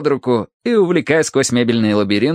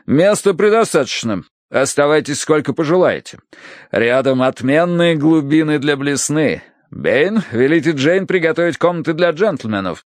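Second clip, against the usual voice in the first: hearty, emphatic colonel, pitched up; hospitable colonel; 5 semitones higher than usual. Acted. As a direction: play the expansive host giving orders. Colonel's figure in narrated story. (радушный полковник, громогласно)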